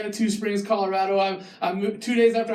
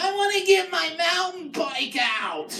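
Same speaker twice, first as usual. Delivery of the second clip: entitled local; 3 semitones higher than usual. Retold or imitated. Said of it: "it's like".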